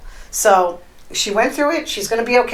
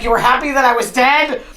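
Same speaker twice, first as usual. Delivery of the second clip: mildly raised, incredulous retort; mock outrage; 3 semitones higher than usual. Host voicing husband hearing wife was happy, mildly incredulous mock outrage. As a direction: act the affronted husband in disbelief.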